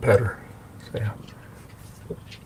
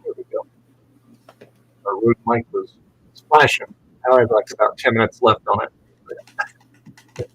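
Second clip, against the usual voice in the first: muffled, like under water; underwater. Real, not acted. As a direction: sound through an echoing, muffled mic. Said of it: "you sound like you're under, underwater".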